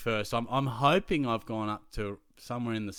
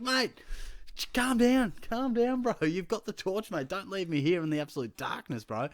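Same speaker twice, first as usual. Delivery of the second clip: much higher, louder frantic pleading; panicked calling; 10 semitones higher, 4 dB louder than usual. Retold or imitated. Teacher begging the student with the torch not to leave. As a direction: call after him in panic.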